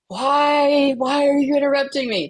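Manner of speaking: mock irritated outburst at an interruption; irritated snap. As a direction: snap at the husband for barging in. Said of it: "I will be like".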